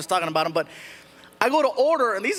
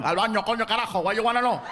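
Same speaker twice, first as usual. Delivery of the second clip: emphatic Cuban comeback; serious Cuban Spanish; faster than usual. Shown as a demonstration. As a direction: answer like an indignant Cuban. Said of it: "It's very serious".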